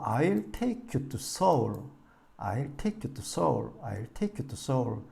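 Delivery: I'll take you to Seoul, slow, take and Seoul long and strong; slow drilled model sentence; stress on take and Seoul. Shown as a demonstration. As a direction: keep to light, lean on Seoul. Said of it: "to 서울".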